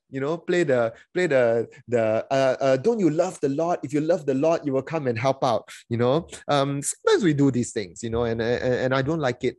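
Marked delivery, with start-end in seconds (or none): 2.8-5.7 guilt-tripping pastor. Retold or imitated. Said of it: "play the God card".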